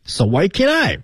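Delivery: a high So why can't I falling on I; high pleading so why can't I; pleading question. Shown as a demonstration. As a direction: plead like a kid left out. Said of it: "Our neighbors are going".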